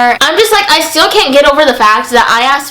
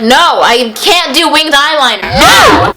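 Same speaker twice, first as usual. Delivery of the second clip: mock refusal; 3 semitones higher, slower than usual. Refusing a client's request, mock.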